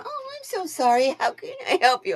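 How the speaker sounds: a hint of a scripted help-desk agent; customer service voice. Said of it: "They're used to customer service people going".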